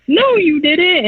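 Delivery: high, drawn-out mock outrage; mock screaming retort. Julie arguing back at Phil, mock screaming. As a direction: imitate an angry denial without full volume.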